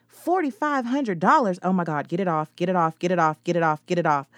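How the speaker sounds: loud, high frantic panic; panicked shrieking over the price. Acted. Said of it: "I charged towards her in a panic".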